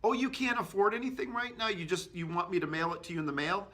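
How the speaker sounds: high incredulous echo of the customer, fast; skeptical repeat-back. Shown as a demonstration. Untrained agent doubting the customer, incredulous echo. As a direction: parrot the objection back in disbelief. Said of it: "then the agent says".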